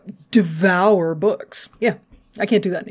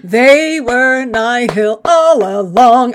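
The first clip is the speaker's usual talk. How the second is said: gloating; 3 semitones higher, 5 dB louder, much slower than usual. Real, not acted. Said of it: "I'm gonna take my little victory lap now".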